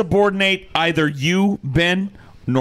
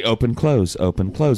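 imitating normal pace; 7 semitones lower than usual. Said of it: "normally it's like".

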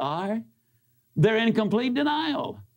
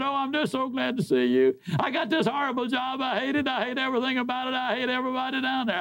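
higher, near tears, rushing the complaints; complaining woman; 6 semitones higher, faster than usual. Retold or imitated. Employee tells Zig her woes, near tears. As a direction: play the miserable employee pouring it out.

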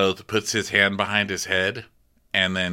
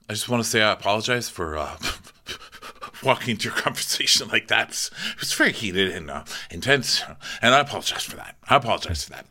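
insincere apology; faster than usual. Retold or imitated. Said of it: "not being sincere".

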